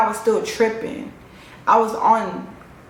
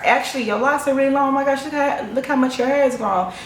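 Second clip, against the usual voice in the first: humoring excitement; 6 semitones higher, faster than usual. Retold or imitated. Friend humoring her, retold.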